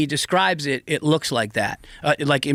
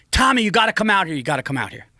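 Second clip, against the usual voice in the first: retold scream; 5 semitones higher, faster than usual. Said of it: "and they're screaming".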